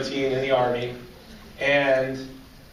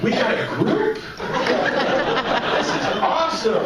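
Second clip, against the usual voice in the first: excited; 9 semitones higher than usual. Retold or imitated. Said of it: "It's like".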